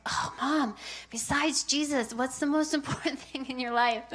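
lightly voiced fed-up son, laughing a little; mock exasperation. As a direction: protest like a child pestering mom. Son's exasperated retort, retold.

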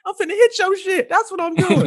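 very high mock-kid voice; high-pitched imitation of a brash child; imitating yelling kid. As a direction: squeak it out defiantly as a little kid. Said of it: "he yells out".

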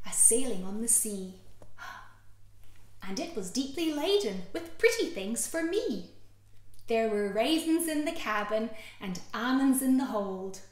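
put-on playful children's rhyme; nursery rhyme. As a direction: read it like storytime.

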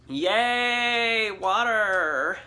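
cheering. Acted. Cheering hydration.

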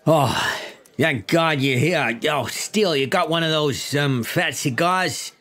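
lightly voiced New York chief; a hint of Brooklyn cop; New York accent. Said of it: "my classic New York accent".

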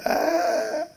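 high, soft drawn-out moan; mock whining groan. Mimes sleepy reluctance about prayer. (אנחה מיוללת וגבוהה)

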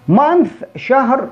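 month drawn out, ending on a clear th; slow careful month. Shown as a demonstration. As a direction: stretch month very slowly. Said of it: "شوف أنا بنطق هنا ثاء". (نطق month ببطء شديد)

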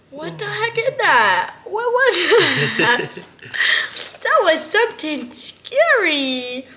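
high, slow cooing with laughter; sing-song pet voice breaking into laughs; baby talk. Acted. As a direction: giggle and coo at the startled baby. Coos, laughing at monkey.

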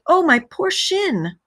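high, drawn-out wail of hurt; cried out in pain. A narrator's reading. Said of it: "he cried".

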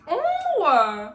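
high, loud ooh of shock. Real, not acted. Vlogger reacting to the host yelling, shocked. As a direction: gasp out a scandalized ooh.

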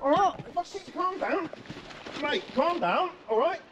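high, urgent plea to calm things; urgent pleading. Real, not acted. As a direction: plead with someone attacking you. Trying to stop a fight.

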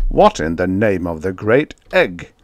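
plain reading voice

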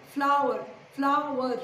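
Flower repeated as two clear beats; syllable by syllable. Shown as a demonstration. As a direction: sound out both syllables of Flower. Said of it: "Two syllables".

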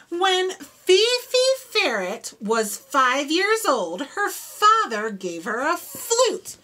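leaning on each F sound; stressed F sounds. Shown as a demonstration. Reading to children with F sounds stressed. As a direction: make the F words pop for the kids. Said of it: "Do you hear those F sounds?".

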